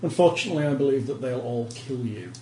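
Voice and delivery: a hint of a stiff, courteous official; polite but firm refusal; lightly voiced minor noble. NPC noble explains his authority.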